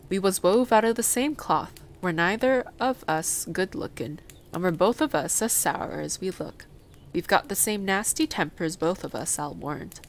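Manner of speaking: a hint of dour moor man; lightly voiced blunt Yorkshire gardener. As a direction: lightly play the frank old countryman.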